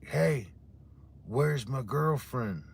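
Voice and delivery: drawn-out yelling call; hollering for his girlfriend; mock yell. Intruder yelling into the house, mock yell. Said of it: "It was yelling that shit out".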